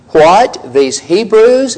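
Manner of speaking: slow, rising "these Hebrews?" in disbelief; stunned disbelief. Acted. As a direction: say it as if struck speechless. Quoting the stunned Philistine lords.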